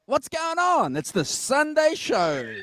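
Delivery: high, squeaky voice, slow; helium-sounding. Real, not acted. Host's voice glitching high on the show opener. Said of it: "He's been breathing the helium balloons".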